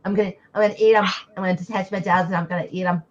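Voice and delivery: lisping monster voice, fast. Acted. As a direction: eat them with a lisp. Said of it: "now I'm gonna play it with a lisp".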